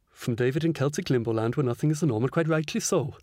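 a light Welsh lilt while reading the letter aloud; a hint of a Welsh accent, lightly done; mock Welsh accent. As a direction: read it in a modest put-on Welsh accent. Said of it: "my best Welsh accent".

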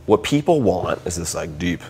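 a hint of a lecturing boss, low and soft; lightly voiced old-school supervisor giving advice; gruff radio supervisor. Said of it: "deep, dignified baritone voice".

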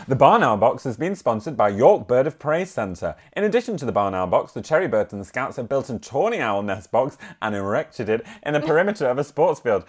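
measured village bulletin reading; local news read. Acted. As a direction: read out a parish news item. Reads local news item aloud.

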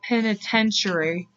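"Penitentiary" sounded out slowly; slow, careful attempt at "Penitentiary"; careful retry. Real, not acted. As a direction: stretch "Penitentiary" out to get it right. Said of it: "Why can't I say it".

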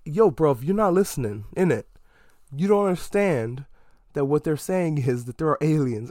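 playful London slang voice scolding a character who won't listen; mock British slang. Host mocking a dim drug dealer in a hammed-up London accent. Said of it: "wanting to say all of the British slang".

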